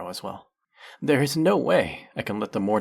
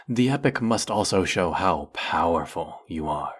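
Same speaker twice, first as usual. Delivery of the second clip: ordinary delivery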